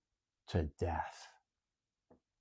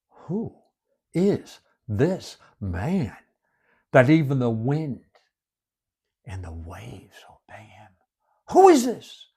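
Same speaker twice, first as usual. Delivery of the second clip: slow soft wondering; awed whisper; 3 dB quieter than usual. Acted. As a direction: murmur it in awe.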